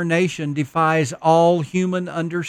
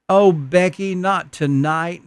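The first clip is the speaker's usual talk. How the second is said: moaning; 3 semitones higher than usual. Acted. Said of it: "Mommy moaned".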